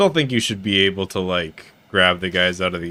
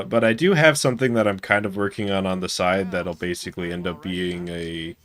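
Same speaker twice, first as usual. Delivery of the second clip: ordinary talk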